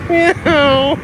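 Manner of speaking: high playful meow; cat meow. Pretend. To viewers, a playful meow while laughing.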